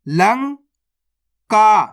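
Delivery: drawn-out syllables, spelled slowly; slowly sounded out. Shown as a demonstration. Teacher sounding out the word for pupils, slow and drawn out. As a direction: stretch the word for the kids to follow. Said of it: "तो मिलके बन जाएगा".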